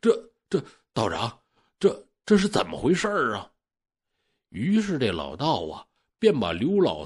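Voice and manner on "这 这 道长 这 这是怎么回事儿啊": stammering in fright, rushing the last question; a scared old man stumbling over his words; frightened. Acted. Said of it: "可吓得不轻". (吓得结结巴巴地追问道长)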